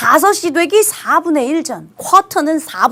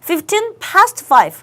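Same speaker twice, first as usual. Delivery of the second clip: "Fifteen past five" very slow, each word apart; slow dictation; 4 semitones higher, much slower than usual. Shown as a demonstration. Teacher dictating the time to students. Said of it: "가장 일반적으로 많이 씁니다".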